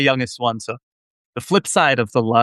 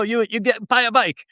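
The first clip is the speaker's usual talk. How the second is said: retold immigrant dad in a much higher, heavy Israeli accent; 10 semitones higher than usual. Son imitating his immigrant dad's pep talk in a heavy Israeli accent. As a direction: mimic your dad's Israeli accent, pitched high. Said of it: "in a heavy Israeli accent".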